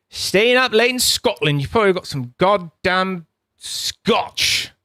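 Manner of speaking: a playful put-on Southern England accent; mock British accent. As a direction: tease the viewer in a hammed-up Southern England accent. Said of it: "That wasn't a Scottish accent... Southern England".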